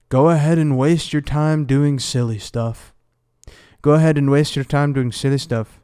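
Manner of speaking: a bad British accent for a singer; half-hearted British accent impression. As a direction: put on a clumsy British accent, quoting him. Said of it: "that's such a bad accent".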